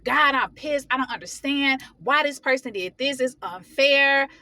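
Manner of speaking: retold frustrated prayer, stretching the final word; venting to God. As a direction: pour out a grievance to God. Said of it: "I will dump all my emotions".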